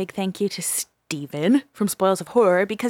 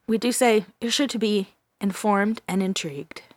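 whisper. Pretend. Mock promo line whispered.

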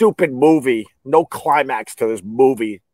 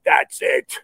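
mock grim whisper. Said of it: "And this guy's like".

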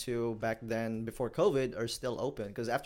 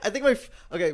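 laughing; 6 semitones higher, 6 dB louder, much faster than usual. Real, not acted. Laughing recalling pool game.

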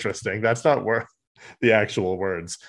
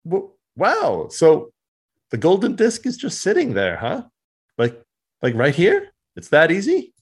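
high, wide-eyed mock amazement; a hammed-up gleeful surprise; amazed Rat Trap; 7 semitones higher than usual. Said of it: "and he's like".

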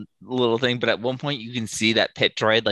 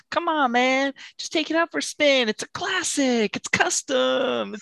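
used car salesman. Retold or imitated. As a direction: pitch it like a sleazy car dealer. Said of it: "her best, like, used car salesman impression".

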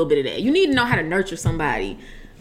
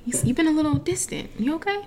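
higher, softer acted check-in; gentle concern; 7 semitones higher, 5 dB quieter than usual. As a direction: ease into it carefully, acting concerned. Acts out checking on sad roommate.

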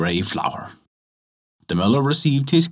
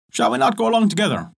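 tailor's invitation; 10 semitones higher, faster than usual. Acted.

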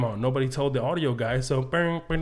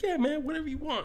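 laid-back imitation of Dave; 3 dB quieter than usual. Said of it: "He's like".

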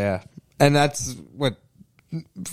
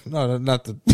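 Tony Soprano mutter; 3 dB quieter than usual. Retold or imitated. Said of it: "like it's Tony Soprano".

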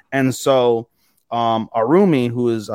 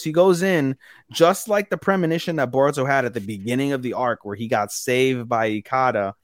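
ordinary talk, nothing marked

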